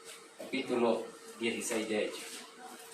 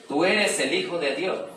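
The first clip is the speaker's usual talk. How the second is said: loud, slow, higher outcry of demons; demons crying out; 6 semitones higher, 7 dB louder, slower than usual. A narrator's reading. Preacher voicing the demons who cry out to Jesus, loud and slow. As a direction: let the demons shout it out, drawn slow. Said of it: "dando voces".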